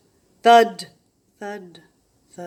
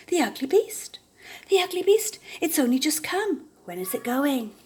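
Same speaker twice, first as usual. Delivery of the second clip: scornful; 6 semitones higher than usual. A narrator's reading. Animals scorn the newcomer.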